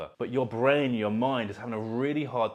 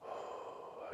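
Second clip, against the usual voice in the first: soft sigh; 18 dB quieter than usual. Shown as a demonstration. Second sigh while demonstrating breathing.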